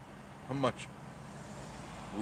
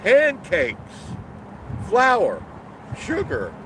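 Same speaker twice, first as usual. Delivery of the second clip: exasperated; 11 semitones higher, 7 dB louder, much slower than usual. Real, not acted. Exasperated at the prices.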